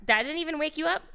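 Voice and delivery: high shrieking laugh; laughing at the sleepy puppy, then asking. Real, not acted. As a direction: burst out laughing loud and high.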